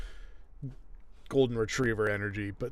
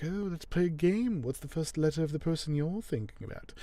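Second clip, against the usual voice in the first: higher, lilting imitation of her; retold flirty woman; 5 semitones higher than usual. Neely starting a guessing game with Alan, mock flirty. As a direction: lightly play her teasing him into a game. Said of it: "she's like".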